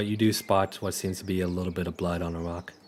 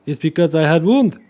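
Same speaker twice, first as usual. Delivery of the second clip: high, loud stammering excuse; frightened stammer; 7 semitones higher, 9 dB louder than usual. Acted. Riolus lying to Snips about the blood, high and frightened. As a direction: stumble over the excuse.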